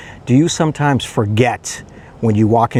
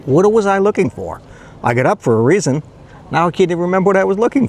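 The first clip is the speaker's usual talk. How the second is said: puzzled and rising higher, then rushing the words fast; bewildered self-quote; 6 semitones higher, faster than usual. Retold or imitated. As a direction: play the muddled forgetter asking himself aloud. Acting out forgetful self.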